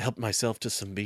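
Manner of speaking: light-voiced delivery. Imitating an actor's take on a character: lighter-voiced Ray Stevenson Rorschach. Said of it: "this lighter voice".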